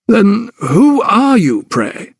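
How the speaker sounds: high, slow incredulous question; incredulous doctor. Acted. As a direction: ask in disbelief. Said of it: "looked at her incredulously".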